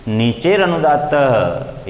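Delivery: नीचेर अनुदात्त drawn out slowly, each syllable spaced; slow deliberate sutra. Shown as a demonstration. Teacher slowly reciting the sutra to his students. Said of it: "इसका अर्थ होगा".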